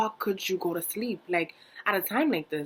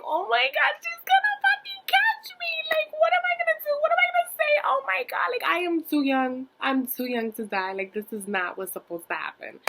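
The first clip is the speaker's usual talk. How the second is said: very high, loud, frantic panic; rushing, shrill-pitched fear of being caught; 3 dB louder than usual. Retold or imitated. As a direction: squeal in hammed-up terror. Panic over getting caught.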